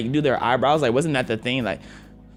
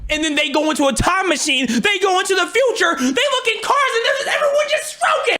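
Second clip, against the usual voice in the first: very high, strained incredulous shouting; exasperated rant. Real, not acted. Reactor telling of time travelers' shock, exasperated rant. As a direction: build to a squealing, hysterical punchline.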